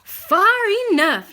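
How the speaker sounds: loud call ahead. A narrator's reading. Old woman calling to the pig, loud call. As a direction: call it out to stop the boat. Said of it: "Euphonia called out".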